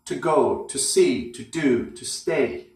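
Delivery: each to short and unstressed before the verb; weak unstressed to. Shown as a demonstration. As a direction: swallow to, lean on go, see, do, stay. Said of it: "word is always weak".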